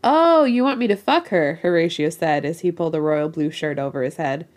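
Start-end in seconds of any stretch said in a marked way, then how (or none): 0.0-1.6 character voice. Acted. Character's crude offer.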